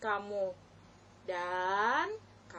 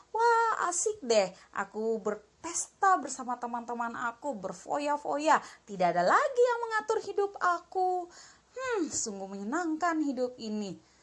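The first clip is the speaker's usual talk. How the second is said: excited son. Acted. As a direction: celebrate like a spoiled boy set free. Son celebrates partying.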